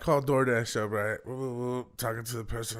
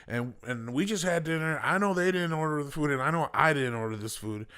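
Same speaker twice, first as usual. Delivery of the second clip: mildly heated retelling, pitched up; mad customer; 3 semitones higher than usual. Retold or imitated. Mother defending her kids to driver, mad. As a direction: imitate an indignant mother protesting. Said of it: "mad, you know".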